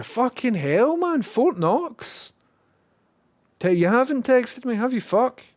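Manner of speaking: loud, high frustrated swearing; exasperated outburst. Real, not acted. Streamer fed up with a login, exasperated shout. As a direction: blow up at the login hassle.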